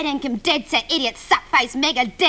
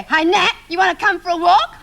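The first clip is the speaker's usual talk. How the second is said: higher-pitched teasing call-out; taunting call; 4 semitones higher, 3 dB louder than usual. Acted. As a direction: call over to a rival as if to a dog. Calling out tauntingly to rival.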